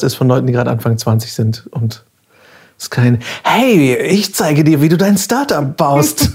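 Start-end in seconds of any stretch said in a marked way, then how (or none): 3.4-6.3 startup bro voice. Retold or imitated.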